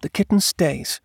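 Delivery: high-pitched, firm wife's voice; wife insisting. Acted. Wife defies husband over the kitten, firm. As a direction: declare it firmly in a high voice.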